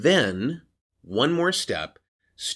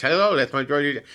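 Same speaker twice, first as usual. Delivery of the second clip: Georgie Jessel voice; 5 semitones higher, faster than usual. Shown as a demonstration. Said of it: "that's my Georgie Jessel voice".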